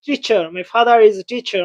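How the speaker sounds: "father is" said slowly with the r sounded into "is"; linking r, slow. Shown as a demonstration. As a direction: link the r of "father" clearly into "is". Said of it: "আর এর উচ্চারণ অবশ্যই করতে হবে".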